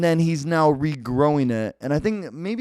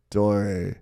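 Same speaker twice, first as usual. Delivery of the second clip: bad Kreese impression; 5 semitones lower than usual. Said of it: "that's a bad Kreese".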